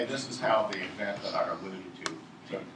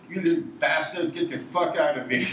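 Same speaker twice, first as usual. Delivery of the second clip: higher-pitched mock threat; retold angry threat; 5 semitones higher, 3 dB louder than usual. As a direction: act out chasing off a smaller man. Retold threat to smaller man.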